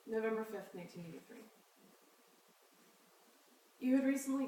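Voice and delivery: measured reading with long pauses between phrases; poetry reading. Acted. Poet reads dated pieces to an audience, measured poetry reading. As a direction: read it out evenly, letting each line settle.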